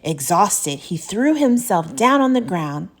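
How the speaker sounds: animated picture-book reading; story narration. A narrator's reading. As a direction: tell the weary climb to children. Reads picture book aloud.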